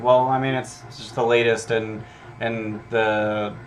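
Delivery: a mildly bored, offhand townsfolk reply; uninterested. Acted. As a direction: shrug it off as if it's nothing special. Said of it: "play up that they're uninterested".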